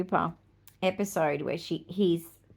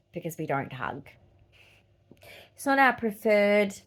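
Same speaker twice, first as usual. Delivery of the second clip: confiding whisper. Acted. Autistic woman confiding to viewers, in a whisper. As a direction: whisper it as a confession.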